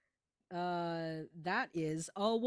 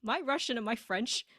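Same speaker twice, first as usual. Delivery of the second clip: put-on Russian accent; 3 semitones higher, 4 dB louder than usual. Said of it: "this is the voice that I am doing".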